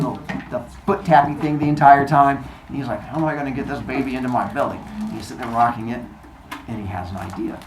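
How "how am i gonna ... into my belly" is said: scheming mutter. Retold or imitated. Scheming aside.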